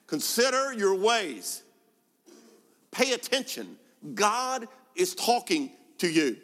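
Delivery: slow, high, forceful call to pay attention; urgent preaching. Acted. Preacher urging the congregation, loud and slow. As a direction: drive it home to the whole congregation.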